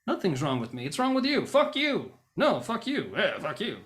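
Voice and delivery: acted shouting match, high and loud at first; road rage. Two people arguing over a liked thing, road rage. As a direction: trade insults like raging drivers. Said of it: "road rage kinda thing".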